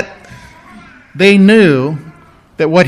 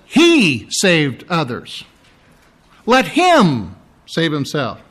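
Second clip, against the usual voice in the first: slow mocking; slower than usual. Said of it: "It says".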